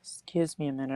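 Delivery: strained throat after coughing; choking. Real, not acted. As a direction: speak through a tickly cough. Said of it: "I'm choking over here".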